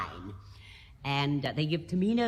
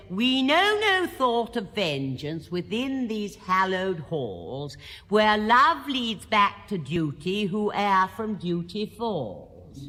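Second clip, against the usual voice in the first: recited aria lyric; 4 dB louder, slower than usual. Retold or imitated. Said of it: "it says".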